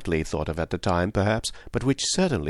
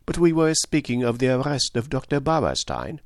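genial detective, higher-pitched than the narration; lightly voiced Poirot; 4 semitones higher than usual. Poirot steering his friend back to the arrest, genial detective voice. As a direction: play a mild, accented detective.

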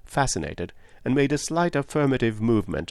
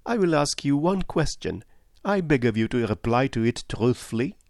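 higher-pitched, earnest detective; Poirot; 5 semitones higher than usual. Acted. Detective asks a woman for a truthful answer, earnest. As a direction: press the question politely.

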